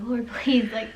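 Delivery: half-laughing mock desperate plea; anxious prayer. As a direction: plead as in a nervous, retold prayer. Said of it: "I'm praying".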